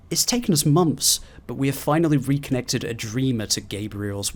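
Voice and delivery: lightly voiced scientist's log entry; reading a research log. Player reading a scientist's journal aloud, lightly in character. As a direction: read it like a researcher dictating notes.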